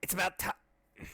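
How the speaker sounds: slow, lightly put-on old scientist voice; new voice attempt. Shown as a demonstration. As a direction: try out a voice for the doctor, slowly. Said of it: "I could do a better voice than that".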